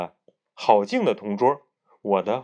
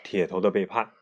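lively bedtime story reading; story narration. A narrator's reading. Parent reading a children's story aloud at bedtime, lively narration. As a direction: read it like a diary story for a child.

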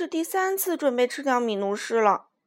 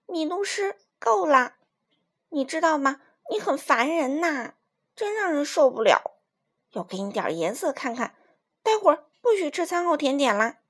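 raised, higher voice bursting loud on the scolding; mother yelling; 4 semitones higher, 3 dB louder than usual. Acted. Mother scolding Minus for the mess, loud yell. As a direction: scold him like a mother at the end of her rope. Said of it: "对他大喊".

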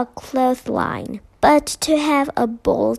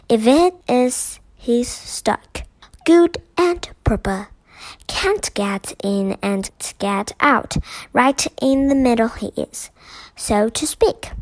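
doorkeeper voice; 3 semitones higher, 4 dB louder than usual. Acted. Doorkeeper explains.

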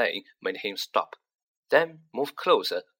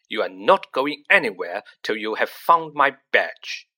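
louder, demanding yell; mild yell, louder; 6 dB louder than usual. Acted. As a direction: yell at his brother. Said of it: "yelled Percy".

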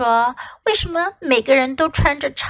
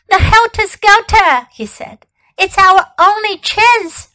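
urgent; 8 semitones higher, 6 dB louder than usual. Acted. Boy urging escape.

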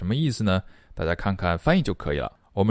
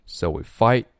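"so we fight" set apart before a break; pause after fight. Shown as a demonstration. Teacher demonstrates the pause, "fight" cut off from what follows. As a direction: stop briefly after "fight". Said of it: "停顿".

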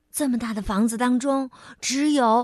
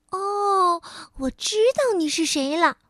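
elf voice; 5 semitones higher than usual. Acted.

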